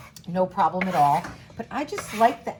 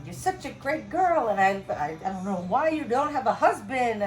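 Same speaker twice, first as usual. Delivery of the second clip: put-on half-hearted Italian accent; 4 semitones higher, 3 dB louder than usual. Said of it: "I can't do an Italian accent".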